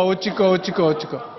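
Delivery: mock Jeolla worrier fretting over nothing. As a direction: mutter 어찌까 like a Jeolla worrier. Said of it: "전라도 말로 어찌까".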